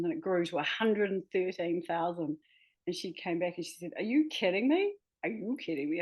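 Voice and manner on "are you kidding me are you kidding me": lightly attempted New York editor accent, incredulous; half-hearted imitation of a tough New Yorker's accent. Author imitating New York editor's shock at word count, attempted New York accent. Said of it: "I can't do her accent".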